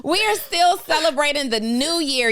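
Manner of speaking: laughing while talking, high. Real, not acted. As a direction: giggle through the opening line. Laughing start of show.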